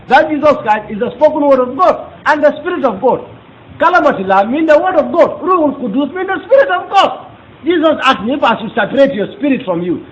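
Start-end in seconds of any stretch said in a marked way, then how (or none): 3.8-10.0 laughing through the words. Real, not acted. Preacher explaining the Arabic, laughing as he goes. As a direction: let real laughter spill into the line.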